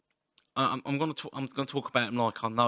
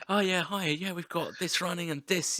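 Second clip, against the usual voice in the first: flustered greeting; 5 semitones higher than usual. Retold or imitated. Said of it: "it's like".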